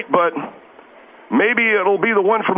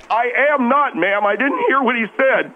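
higher, wounded protest; about to bawl; 4 semitones higher than usual. Acted. Guest defends himself to the scolding co-host, close to bawling. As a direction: plead innocence, a touch tearful. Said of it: "Don't start bawling".

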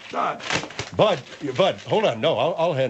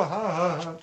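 softer practice ha-ha-ha; imitated laugh; 6 dB quieter than usual. General goes off to practice the laugh, softer mimicked ha-ha-ha. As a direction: try the mimicked laugh out quietly. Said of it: "If you go".

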